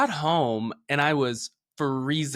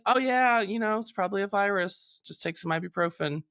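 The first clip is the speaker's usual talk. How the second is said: high, breezy mock doctor voice; dismissive doctor; 7 semitones higher than usual. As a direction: brush it off like a bored clinic doctor.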